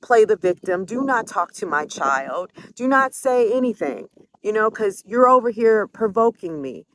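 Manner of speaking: high, loud retold yelling; reliving the blowup, shouting at mom; angry shouting at mom. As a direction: snap back furiously at her mother. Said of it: "I went off completely".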